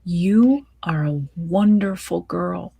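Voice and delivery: a mother whispering comfort to her daughter. Acted.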